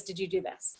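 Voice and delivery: "Did you do this?" fading to a soft mumble; trailing off. Shown as a demonstration. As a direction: let the repeated question die away. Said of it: "rapid fire questions, same example".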